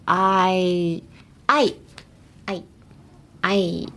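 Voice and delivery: "Ai" said alone, first half of aisle; isolated vowel sound. Shown as a demonstration. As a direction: sound out "Ai" by itself for learners. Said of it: "a good way to help people say aisle".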